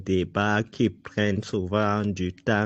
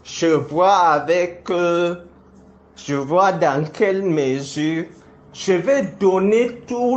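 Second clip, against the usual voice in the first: raised, defiant accusing voice; heated; 5 semitones higher than usual. Real, not acted. Public accusation, defiant heated denunciation.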